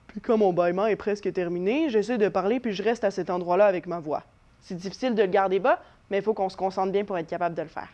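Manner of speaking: held low, as if just after yawning; low post-yawn voice. Shown as a demonstration. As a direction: keep the voice down where the yawn left it. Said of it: "Je vous fais un autre exemple".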